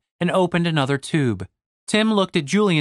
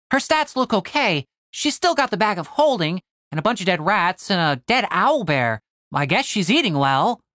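higher-pitched sidekick reading aloud; Tim, reporting; 4 semitones higher than usual. Acted. Tim reads out Catherine's sheet, matter-of-fact. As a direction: start high, settle as the list goes.

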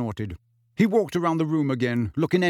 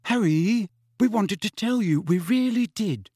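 high, earnest pleading; pleading girl; 8 semitones higher than usual. A narrator's reading. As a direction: press the point, begging him to believe. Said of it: "Hermione began".

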